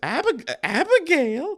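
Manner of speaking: very high falsetto, swooping throughout. Greeting someone named Abigail with the cartoon line: Mel Blanc falsetto. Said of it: "hearing Mel Blanc clear his voice".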